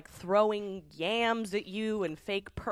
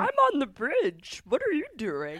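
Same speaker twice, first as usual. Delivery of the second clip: mock confused cyclist; 8 semitones higher than usual. Mocking Tracy on the bridge.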